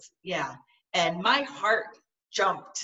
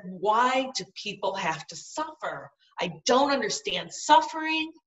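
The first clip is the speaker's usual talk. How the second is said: retold anger; 2 semitones higher, 3 dB louder than usual. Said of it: "And I was mad".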